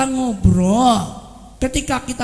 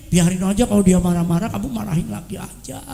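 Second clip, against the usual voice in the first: bad advice; 4 semitones lower than usual. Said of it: "jangan gini".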